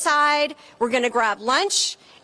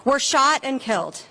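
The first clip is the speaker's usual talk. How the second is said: rally speech. Acted. Speaker at a gun-safety rally.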